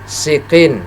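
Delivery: SIKIN with a plain thin s; relaxed-mouth s. Shown as a demonstration. Teacher contrasting sin with shin, relaxed thin s in sikin. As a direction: keep the mouth calm on the s of sikin. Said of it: "mulut kita agak tenang".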